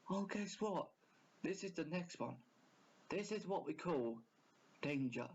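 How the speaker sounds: imitating a countdown channel host; hammed-up scary countdown voice; lightly voiced spooky list narrator; mock YouTube narrator. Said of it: "if I was one of them, I'd say".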